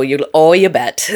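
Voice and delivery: Midwestern accent with a big O in "oh"; Upper Midwest accent. Shown as a demonstration. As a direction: show off the Midwestern O's. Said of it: "my O's are the first thing to go".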